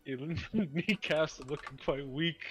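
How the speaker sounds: slow mocking taunt. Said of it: "He cast vicious mockery".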